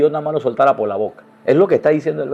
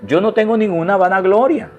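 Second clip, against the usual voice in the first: fervent preaching; 7 semitones higher than usual. Real, not acted. Heated denial of vainglory.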